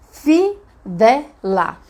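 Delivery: FI, VE, LA slowly separated; syllable by syllable. Shown as a demonstration. Teacher showing the little pieces of fivela, syllable by syllable. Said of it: "ele vai ser os pedacinhos".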